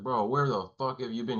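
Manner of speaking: lightly acted alarm at a missing friend; retold freak-out. Camp guys to their returning friend, mildly freaking out. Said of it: "the guys are all freaking out".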